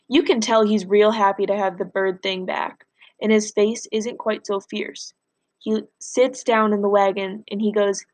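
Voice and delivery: steady read-aloud storytelling for class; story narration. A narrator's reading. Teacher reading Freak the Mighty aloud to class, plain storytelling. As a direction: read the novel to the students, even and clear.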